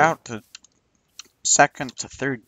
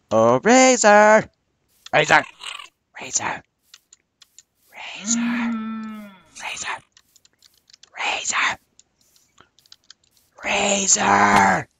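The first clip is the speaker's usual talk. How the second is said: calling out; 7 semitones higher, 5 dB louder, slower than usual. Real, not acted. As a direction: call a name across camp, long and loud. Calling out to Razor.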